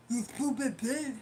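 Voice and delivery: slow, put-on heckler voice; mocking caller impression. Streamer imitates the caller's insult to her, slow and mocking. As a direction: drag out the insult in his voice. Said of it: "That's exactly how he sound".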